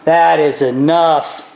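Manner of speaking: low, grave king putting an end to it; stern king. Retold or imitated. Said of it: "the king goes".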